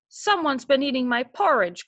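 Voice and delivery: a hint of a gruff papa bear; lightly growled, papa bear to his family; understated papa bear complaint; mild papa bear growl. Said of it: "growled Big Papa Bear".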